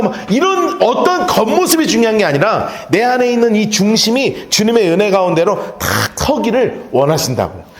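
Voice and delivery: normal talking voice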